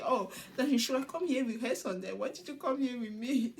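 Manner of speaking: imitating a mildly jealous retort; playfully jealous. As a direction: lightly act out a jealous comeback. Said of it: "Gowon be a little bit jealous".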